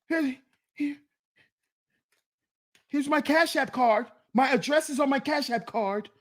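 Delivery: high, anxious offering to an officer; mock a man eagerly handing over papers; lightly hammed-up compliance; mock deference. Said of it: "Niggas be talking to him like this".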